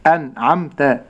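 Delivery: slow أنعمت with clear n and m; model pronunciation. Shown as a demonstration. Sheikh letting listeners hear أنعمت, careful clear nun. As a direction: separate an-am-ta cleanly in أنعمت. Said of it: "نستمع مرة أخرى".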